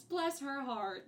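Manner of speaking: a hint of a drawn-out Southern lady; Southern woman charm. Catty flowers paying backhanded compliments, light Southern charm. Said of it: "Southern woman charm about them".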